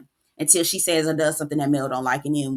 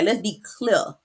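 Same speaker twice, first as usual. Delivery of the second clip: light rapper impression, "clear" said like "clea"; hint of a Southern rapper's accent; slower than usual. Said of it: "T I voice".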